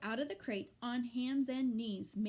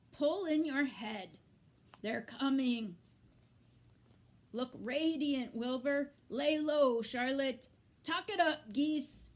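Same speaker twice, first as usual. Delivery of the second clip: high, honking goose hurrying the others; hurried warning from a high-pitched goose; fussy goose voice; 4 semitones higher, 6 dB louder than usual. A narrator's reading. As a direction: cluck them into line like a bossy goose.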